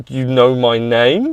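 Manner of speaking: slow, disbelieving question; mock awe, drawn out to a rising end; starstruck. Speaker to his racing hero, slowly starstruck. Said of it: "kind of starstruck".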